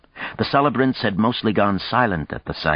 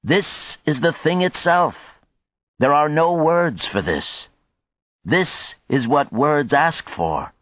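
high oratorical declaration, measured phrases; crying out; 9 semitones higher than usual. A narrator's reading. Overwhelmed man answers the call for a speech, crying out. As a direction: proclaim it to the gathered crowd. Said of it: "he cried".

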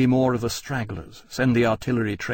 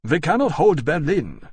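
grim declaration; 6 semitones higher, 5 dB louder than usual. A narrator's reading. General's grim announcement.

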